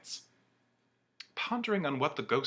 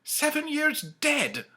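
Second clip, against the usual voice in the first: high, slow pondering; musing; slower than usual. Acted. Scrooge wonders aloud to the ghost, slow and musing. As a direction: turn it over slowly. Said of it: "mused Scrooge".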